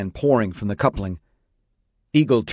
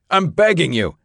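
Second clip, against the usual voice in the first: high, louder desperate plea; begging, voice raised; 8 semitones higher, 3 dB louder than usual. Acted. Eagle pleading with the city fire chief, raised begging voice. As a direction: beg him with a raised voice. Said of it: "raising his voice".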